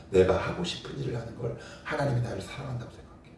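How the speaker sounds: ordinary talk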